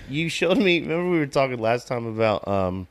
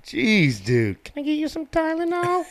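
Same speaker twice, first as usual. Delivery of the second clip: mock caring voice.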